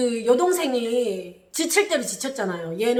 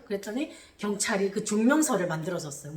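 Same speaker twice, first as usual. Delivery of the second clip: ordinary delivery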